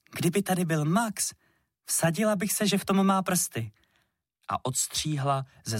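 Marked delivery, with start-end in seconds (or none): 0.1-3.7 higher, teasing sing-song. A narrator's reading. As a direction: tease him knowingly. Girl mocking absent Max.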